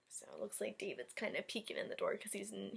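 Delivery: hushed whisper. Acted. Teacher showing David sneaking in late, whispered. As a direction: whisper as if sneaking past the door.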